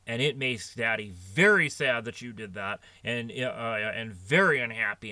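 dad lecturing his small daughter sternly. Retold or imitated. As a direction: scold a three-year-old firmly. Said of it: "I got real stern with her".

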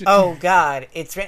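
hammed-up breathy gasp of pleasure; breathless moan. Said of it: "and then keeps saying it".

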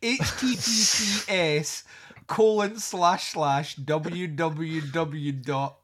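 mock-slow reading of a web address, letter by letter; slow spelled-out web address. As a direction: drag out each letter of the address like a joke dictation. Spelling out a long web link.

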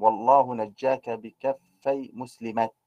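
slow verse line stopping on a t in مسلمات; measured recitation, final ta of مسلمات sounded; pausal ta. Shown as a demonstration. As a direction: end مسلمات on a bare t, "Maslamat". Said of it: "بالتاء".

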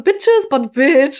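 drawn-out sassy quip; slow sassy drawl. Retold or imitated. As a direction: stretch it out, sassy. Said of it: "einfach so manchmal so".

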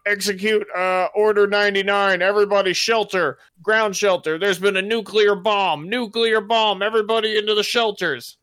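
high, loud booming king's announcement. Acted. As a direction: boom it out like a panicked overlord. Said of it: "this big booming voice come out through the castle".

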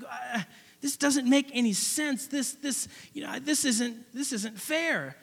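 as if the wind was knocked out of you; deflated. Retold or imitated.

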